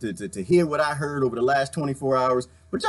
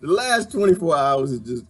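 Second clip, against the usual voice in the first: laughing; much slower than usual. Real, not acted.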